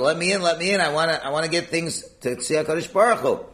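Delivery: insistent plea, pitched a little up; pleading. Acted. Worshipper begging an angel for entry, pleading. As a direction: plead eagerly to be let through. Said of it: "you're really pleading with the angel".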